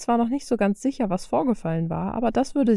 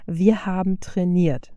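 calm tone; slower than usual. Acted. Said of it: "mit ruhigem Ton".

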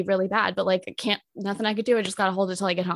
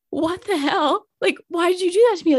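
indignant retold outburst; 9 semitones higher, 5 dB louder than usual. Confronting date after wrong door.

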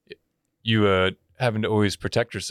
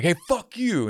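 retold taunt; 9 semitones higher, slower than usual. Laughing friend heckles him on the walk, mock taunt. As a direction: imitate a friend heckling you, pitched up. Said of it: "and he's laughing".

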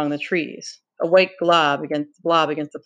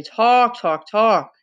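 bitter, mocking repetition, first word higher; 5 semitones higher, 4 dB louder, much slower than usual. A narrator's reading. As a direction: spit out each repeat bitterly. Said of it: "said Ralph bitterly".

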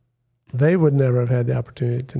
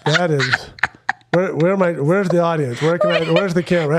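laughing mock shock; 3 semitones higher than usual. Real, not acted. Mock shock at a guest swearing.

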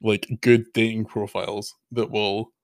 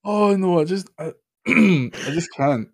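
laughing; 10 semitones higher, slower than usual. Real, not acted. Cannot cope with the joke.

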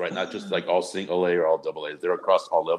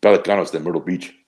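Pelicanos de Myrtle Beach in a light Spanish accent. Shown as a demonstration. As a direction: roll out Pelicanos with a Mexican Spanish lilt. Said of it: "a Spanish accent or Mexican accent".

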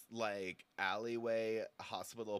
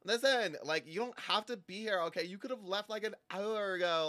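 higher, louder snapping at the other guest; annoyed bickering; 7 semitones higher, 5 dB louder than usual. Acted. Woman snapping at a chatty guest to shut up. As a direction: tell her to shut up, exasperated.

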